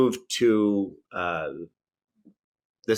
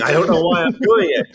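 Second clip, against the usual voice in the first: higher, louder imitated British accent; mock-British bewilderment, breaking toward laughter; Tom Daly; 8 semitones higher, 6 dB louder than usual. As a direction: imitate a helpless man stuck in British. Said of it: "He's even doing it when he's".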